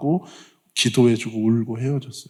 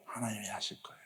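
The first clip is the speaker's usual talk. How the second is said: softer, unvoiced whisper; 4 semitones lower, 25 dB quieter, faster than usual. Real, not acted. Pastor reassures the congregation in a whisper. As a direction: breathe it to them like a secret.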